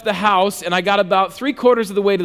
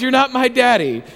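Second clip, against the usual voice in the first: mild mock yell, slightly raised pitch; retold scream; 4 semitones higher than usual. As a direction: report the toddler's scream without really shouting. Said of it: "She's screaming at the top of her lungs".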